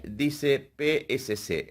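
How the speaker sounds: P S C spelled letter by letter, slowly. Shown as a demonstration. Teacher slowly spelling P S C to students. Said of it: "En vez de decir".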